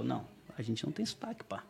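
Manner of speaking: softly voiced European Portuguese friend; understated mock European Portuguese accent; imitated Portugal accent. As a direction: imitate a Portuguese man denying his accent. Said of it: "o sotaque de vocês é muito engraçado".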